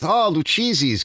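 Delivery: Lucchese's said loo-CHEE-zeez, drawn out; tourist-style Lucchese's with ch; mock misreading. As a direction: naive New Yorker saying Lucchese's wrong. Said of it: "stupid New Yorkers".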